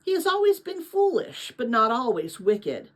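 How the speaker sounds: steady storytelling voice reading a novel aloud; story narration. A narrator's reading. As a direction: read it like a bedtime chapter book.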